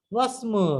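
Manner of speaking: ওয়াসমু run together as "wasmu"; linking hamza dropped. Shown as a demonstration. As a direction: glide from wa straight into smu in ওয়াসমু. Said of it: "হামজাতুল ওয়াসল".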